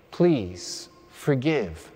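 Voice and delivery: very slow, drawn-out plea; slow demo for the congregation to copy; slow modelled prayer. Shown as a demonstration. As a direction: stretch every word of the plea. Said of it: "Let me hear you say that".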